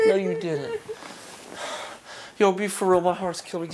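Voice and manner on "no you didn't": high, cracking denial; shrill disbelief. Real, not acted. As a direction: plead it's not true. Boyfriend denies her confession in shock.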